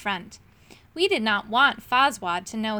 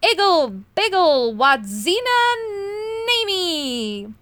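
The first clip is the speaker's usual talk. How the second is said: much higher, louder incantation; spell cried out; 8 semitones higher, 5 dB louder, slower than usual. A narrator's reading. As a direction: call out the magic words. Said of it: "he cried".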